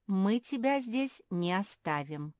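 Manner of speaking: slow, firm resolve; determined. Acted. Mafi to Perla, slow determined vow. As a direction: set it down like a promise. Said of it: "решительно сказала Мафи".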